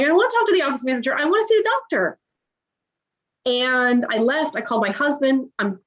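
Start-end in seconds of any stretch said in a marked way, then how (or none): 0.0-2.2 retold crying plea. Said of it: "And I'm like".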